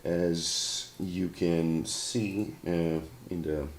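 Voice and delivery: sore throat, hoarse and rough; hoarse sick voice. Real, not acted. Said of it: "I sound like a deep-voiced singer".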